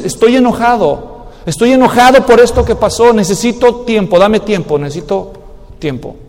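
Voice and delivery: a calm admission that fades to nearly silent on the last words; husband admitting anger. Acted. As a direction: say it honestly, then let it die away.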